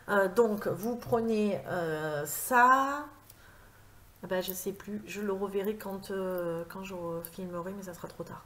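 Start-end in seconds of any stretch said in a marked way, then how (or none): 4.2-8.4 trailing off. Real, not acted. Loses her thread, gives up.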